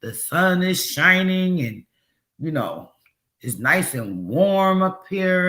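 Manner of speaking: lightly voiced cheerful pilot, slowing at the end; a hint of a sunny captain; pretend pilot announcement. Pilot telling passengers about sunny weather, lightly voiced. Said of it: "You never hear the pilot say".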